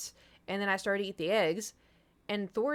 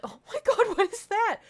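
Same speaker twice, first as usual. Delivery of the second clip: higher, louder laughing disbelief; 14 semitones higher, 7 dB louder than usual. Real, not acted. Laughing at her cat's strange noise, higher and louder. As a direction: laugh at the cat's weird sound.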